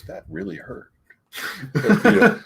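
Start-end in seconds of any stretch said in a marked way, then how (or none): 0.0-0.9 small, high wounded voice; Peter Parker. Retold or imitated. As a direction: play mock hurt, very softly. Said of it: "And Peter Parker goes".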